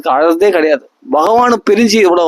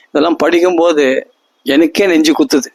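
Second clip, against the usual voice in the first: ordinary talk, nothing marked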